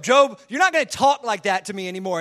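acted tough telling-off; God bowing up. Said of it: "he gets real and bows up to Job".

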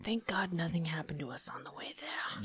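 unvoiced whisper. Real, not acted. Player and GM trading lines, whispered. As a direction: whisper it under your breath.

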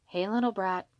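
put-on gentle coo to a baby; soft coo. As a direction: coo it tenderly, only mildly softened. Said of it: "he cooed softly".

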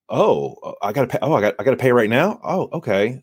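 mildly surprised, hesitant buyer; lightly acted caught-off-guard reaction, stumbling over the start; taken aback. Buyer suddenly realizing they have to pay now, mildly taken aback. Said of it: "they get taken aback".

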